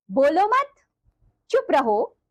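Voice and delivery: "बोलो मत" rising into a long pause before "चुप रहो"; comma pause demo. Shown as a demonstration. Teacher showing children a comma example, "बोलो मत" left rising. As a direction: lift "बोलो मत" upward, hold the pause, then "चुप रहो". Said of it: "उदाहरण देखिए जरा".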